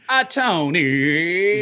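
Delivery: slow drawn-out call with a laugh; from another room. Retold or imitated. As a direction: stretch the name out across the house. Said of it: "I always have to do this with my finger".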